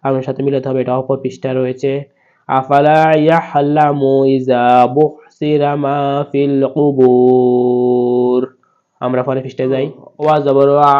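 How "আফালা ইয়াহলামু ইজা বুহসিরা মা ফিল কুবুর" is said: slow, raised Quranic chant; slow recitation. Shown as a demonstration. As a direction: lift the verse and draw every vowel out. Reciting the verse.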